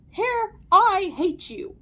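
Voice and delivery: high, slow, loud yell; policeman's yell. A narrator's reading. Policeman tells off the hair, yelling. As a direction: yell it, dragging out each word. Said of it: "So the policeman yelled".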